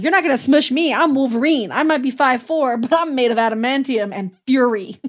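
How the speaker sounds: lightly acted tough comeback; defiant boast. Acting out Wolverine's defiant boast.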